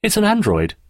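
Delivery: high-pitched, proud announcement; note of pride. A narrator's reading. Andrew presents his creation to Daphne, proud. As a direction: reveal it with a touch of pride. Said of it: "had a note of pride in it".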